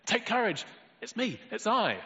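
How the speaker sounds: high, loud calling-out reassurance; reassuring call. Acted. Jesus calling to frightened disciples, loud and reassuring. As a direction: call out across the water to calm them. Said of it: "Jesus spoke to them and said".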